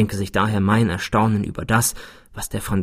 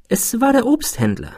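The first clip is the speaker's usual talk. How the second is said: higher-pitched, unruffled character voice; composed answer; 12 semitones higher than usual. A narrator's reading. Friend explains who prompted the thought, composed. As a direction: state it calmly, pitched up. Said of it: "antwortete mein Freund gelassen".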